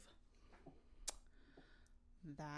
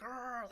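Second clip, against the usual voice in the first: slightly raised mock growl; imitated dog growl; 6 semitones higher than usual. Owner mimics the angry dog, growling. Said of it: "he starts growling".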